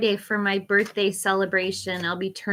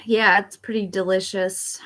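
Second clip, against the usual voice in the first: whispering. Real, not acted. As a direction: whisper it like a secret. Whispered aside about her drink.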